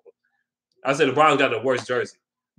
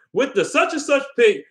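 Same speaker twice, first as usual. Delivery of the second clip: draft announcer; 9 semitones higher than usual. Retold or imitated. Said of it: "they're like".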